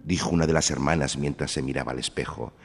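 high, loud quarrelling sisters; bickering stepsisters. A narrator's reading. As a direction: squabble and sneer. Stepsisters quarrel over the prince.

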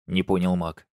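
ordinary delivery, nothing marked

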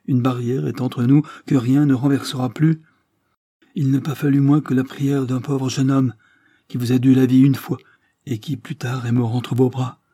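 plus aigu et plus fort, passionné; reproche passionné. Acted. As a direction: monte en émotion dans le reproche. Madame de la Morlaix accuse, émue. (véhémence douloureuse, plus forte)

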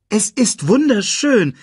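high, loud wonder; amazed exclamation. Acted. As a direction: gasp it out in delight. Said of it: "rief sie aus".

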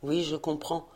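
a quiet, resigned "I understand"; murmuring back to Anne, softly; murmured. Acted. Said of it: "Guy murmura".

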